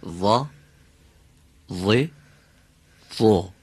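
"وا، وی، وو" with vowels held longer; vowel-lengthening demo; drawn-out vowels. Shown as a demonstration. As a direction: stretch each vowel. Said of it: "صدای کشیده رو یه خود بیشتر".

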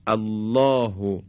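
no squeeze in the throat on the h of الله; open, unconstricted h. Shown as a demonstration. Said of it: "گرفتگی در حلق ایجاد نمیشه". (الله با ه بدون گرفتگی)

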